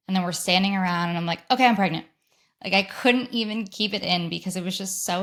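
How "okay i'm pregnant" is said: excited blurt. Retold or imitated. Blurting news at wedding.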